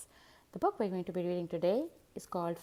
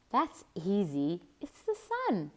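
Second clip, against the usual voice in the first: put-on eager child.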